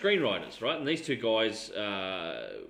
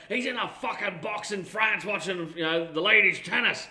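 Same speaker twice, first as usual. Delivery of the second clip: Connery voice; 6 semitones higher than usual. Retold or imitated. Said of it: "he's like".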